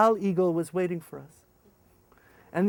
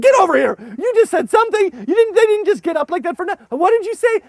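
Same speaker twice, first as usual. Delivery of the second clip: loud high pressing; insistent grilling; 13 semitones higher, 11 dB louder, faster than usual. Retold or imitated. Leader to translator, loud high insistent. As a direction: demand the truth. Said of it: "I said".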